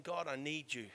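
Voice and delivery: a heart pleading quietly with God; quiet plea. Retold or imitated. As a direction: breathe it as a humble plea. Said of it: "a heart saying".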